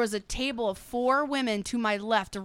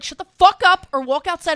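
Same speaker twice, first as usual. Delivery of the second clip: mock threat; 5 semitones higher, 8 dB louder than usual. Imagined threat to noisy friend.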